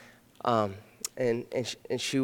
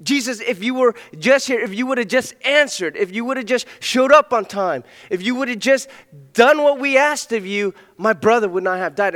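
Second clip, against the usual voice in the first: higher, pleading, building reproach; distraught plea; 7 semitones higher, 5 dB louder than usual. Acted. Mary to Jesus after her brother died, distraught. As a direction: voice Mary's grieving complaint. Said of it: "like, distraught right now".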